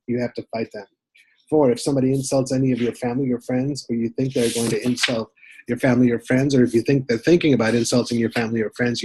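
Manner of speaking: emphatic numbered rule-reading, each number punched; list read aloud. Acted. Reader reciting the unofficial rules of fisticuffs, emphatic list reading. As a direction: read out rules one by one, lifting each opening.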